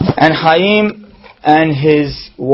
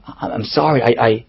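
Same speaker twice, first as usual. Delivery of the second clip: halting, hesitant start; stammered apology; 4 semitones lower, 4 dB quieter than usual. Retold or imitated. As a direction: falter and trip over the first word, acting cowed. Chaim stammers apology after being yelled at.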